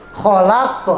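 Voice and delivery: "Kholak" with a bounced echo after the final q; qalqalah. Shown as a demonstration. Teacher showing qaf, bounced ending on "Kholak". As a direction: release the end of "Kholak" with a short uh. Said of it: "harus dibaca qalqalah".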